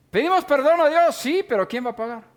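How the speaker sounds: rising emphasis. Acted. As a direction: push the question home, climbing. Preacher raising key rhetorical question.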